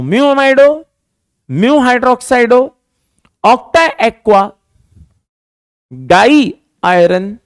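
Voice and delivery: very slow, syllables pulled apart with pauses; slow dictation. Shown as a demonstration. Teacher dictates the full name again for students, slowly. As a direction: read it out carefully for note-taking. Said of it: "मैं दोबारा बोलता हूं".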